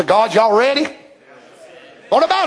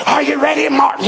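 Jesus calling roll; 4 semitones higher than usual. Retold or imitated. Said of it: "the Lord Jesus will say to Luther".

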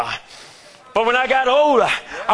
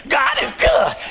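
mocking stock praise; 4 semitones higher, slower than usual. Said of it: "you, you just go".

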